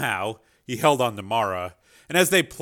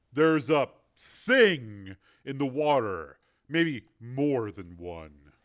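tense warning; slower than usual. Acted. Miller warns in dialogue.

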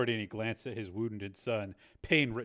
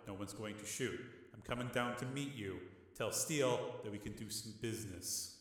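softer, level calm reasoning; calm reasoning brother; 9 dB quieter than usual. A narrator's reading. Rick reasoning with his hothead brother, quiet and calm. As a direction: talk him down quietly.

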